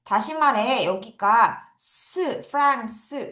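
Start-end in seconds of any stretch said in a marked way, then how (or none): 1.8-3.3 프랑스 with its 스 ending drawn out slowly; final 스 sound. Shown as a demonstration. Teacher showing learners the sound that changes, final 스 sound. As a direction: isolate 스, then sound it at the end of 프랑스. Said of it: "스 발음이 프렌치 요렇게 바뀌면".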